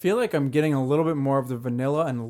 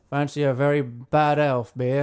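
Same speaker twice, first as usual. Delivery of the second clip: mock English accent. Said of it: "All of my English accents".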